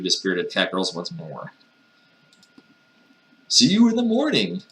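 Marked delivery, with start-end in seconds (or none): 3.5-4.6 high falsetto send-off; mock sweet goodnight. Master leaving cat girls for the night, mock sweet. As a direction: sing out a silly high farewell.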